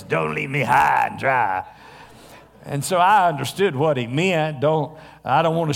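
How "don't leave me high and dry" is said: a hint of a gruff landlord; lightly roughened quote; rough gruff voice. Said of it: "his really rough, gruff voice".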